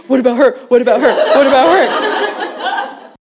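rapid repeated guesses, climbing to a high, loud finish; excited pestering. Retold or imitated. Mom scrolling through daughter's Facebook feed, excited pestering.

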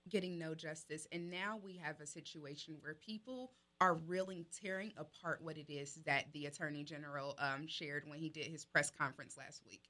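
distant, faint voice off mic; sounding far from the microphone. Real, not acted. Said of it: "you sound like you're far away".

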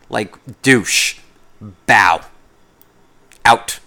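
loud, punchy brush-off; dismissive sign-off. Retold or imitated. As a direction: drop each word like a mic.

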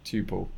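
"tuple" said like "choo-pull"; CH pronunciation. Shown as a demonstration. Answering how they say it, "tuple" softly with CH. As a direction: start "tuple" softly with a ch sound. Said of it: "With a C H, obviously".

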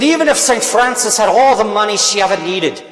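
a hint of a thick Irish accent, first try; lightly put-on Irish brogue, quoting the priest. Preacher quoting an Irish priest to the congregation, light Irish accent. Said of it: "in his thick Irish accent".

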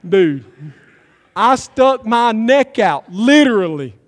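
hammed-up angry complaint with a laugh at the start; mock outrage. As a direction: play the fed-up soldier, half laughing. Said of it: "I'd be mad".

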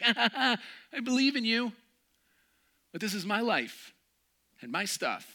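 high, pleading excuse-making; hesitant believer. Retold or imitated. Believer excusing themselves to God, high and pleading. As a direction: bargain with God nervously.

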